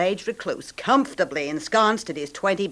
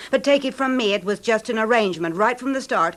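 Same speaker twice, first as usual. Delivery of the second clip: angry accusation; 5 semitones higher than usual. Acted. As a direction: hammer home the charge. Wife accuses husband in quarrel.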